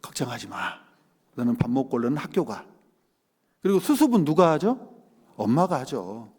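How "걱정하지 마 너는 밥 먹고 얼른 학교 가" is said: softer, gentle mother's comfort; reassuring mother. Retold or imitated. Mother comforting her crying child, soft and reassuring. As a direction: hush the child tenderly. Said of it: "뭐라고 그래요".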